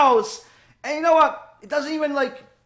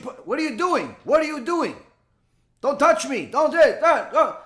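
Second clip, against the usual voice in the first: alarmed protest; 4 semitones higher than usual. Retold or imitated. Pushed husband protests.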